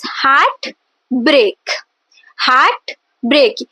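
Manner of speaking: "heart break" as two slow, separate stressed beats; two equal stresses. Shown as a demonstration. Teacher modelling a spondee to repeat, two separate stresses. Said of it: "You can pronounce it as I am saying".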